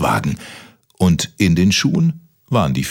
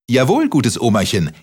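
Kaspar calling; 5 semitones higher than usual. Acted. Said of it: "rief der Kaspar".

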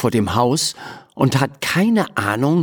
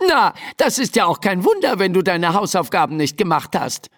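mildly irritated mother, higher pitch; annoyed; 7 semitones higher, faster than usual. Acted. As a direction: answer back with a touch of annoyance. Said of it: "erwidert Mama genervt". (leicht genervte Mutter)

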